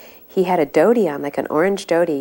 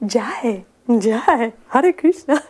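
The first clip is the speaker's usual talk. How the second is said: imitated blissful exclamation, rising higher; blissful, innocent; 5 semitones higher, 4 dB louder, much slower than usual. Man smiling at each devotee, blissful innocence. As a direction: let pitch climb with innocent bliss. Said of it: "innocent, beautiful face, and he said".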